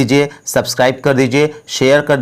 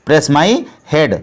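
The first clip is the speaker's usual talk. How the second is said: very slow repeat, word by word; slow it right down for learners; slowed-down teacher model; much slower than usual. Shown as a demonstration. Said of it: "तो इसको English में बोलेंगे".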